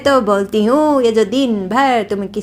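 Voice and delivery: sneering mother-in-law scolding; mocking old matriarch berating her daughter-in-law; scornful taunting. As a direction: belittle her in front of the new bride. Grandmother-in-law taunts Shanti at dinner.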